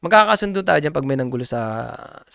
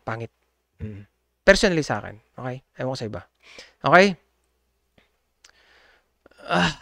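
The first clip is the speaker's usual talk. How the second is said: ordinary talk, nothing marked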